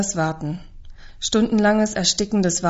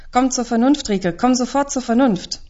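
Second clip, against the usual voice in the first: a father's urgent command, higher and louder; stern father; 5 semitones higher, 3 dB louder than usual. Acted. Father shaking his daughter, urging her to come to her senses, firmly. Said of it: "packt meine Schultern und schüttelt mich".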